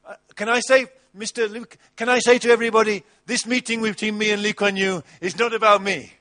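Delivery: a touch of grandstanding; mock pompous self. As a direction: puff up like a pompous guest. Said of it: "this is Pastor Wheels and this is Lee Kuan Yew".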